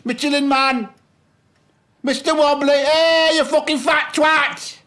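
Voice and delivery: high, loud mocking jeers thrown at him; retold taunting jeers. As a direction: jeer like the lads in the street. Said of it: "I'd always get the same".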